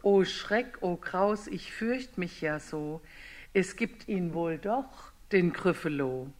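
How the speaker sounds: a mouse trembling at the real Gryffalo; frightened mouse. Acted.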